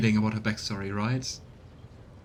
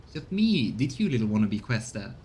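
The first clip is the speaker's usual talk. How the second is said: rough soldier turning on the player; mocking, coarse soldier's taunt; gentle voice gone tough and sneering; soldier slang voice. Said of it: "His voice and bearing undergo a stark transformation".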